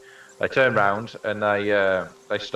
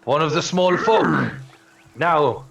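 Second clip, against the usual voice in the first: lightly voiced friendly giant; 2 semitones higher than usual. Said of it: "He goes".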